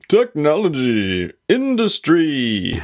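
slow, stretched-out words; drawn-out intro echo. Pretend. Co-host echoing the show's opening word, slow and drawn out. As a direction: draw each word out slowly.

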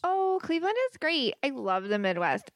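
sudden high, overdone cheer; forced enthusiasm. Acted. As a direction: fake excitement on cue. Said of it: "you have to be a little more enthusiastic".

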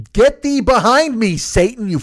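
high, slow, loud preacher-style banishing; mock biblical rebuke. Ordering line-cutters behind him, in a loud mock preacher rebuke. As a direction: cast them out like a preacher.

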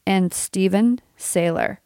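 a little retainer lisp; lispy with a retainer in; wearing a retainer. Real, not acted. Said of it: "lispy thing going on?".

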